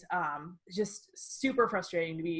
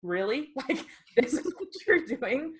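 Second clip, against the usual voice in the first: 1 exasperated disbelief; 2 semitones higher, 6 dB louder than usual. Retold or imitated. Exasperated at barista's question.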